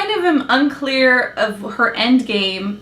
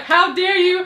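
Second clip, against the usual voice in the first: mock heroic; 5 semitones higher than usual. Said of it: "He's, like, all heroic".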